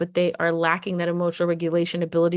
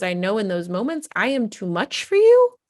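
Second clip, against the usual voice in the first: put-on anguished kid; 5 semitones higher than usual. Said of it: "one of their biggest things too is".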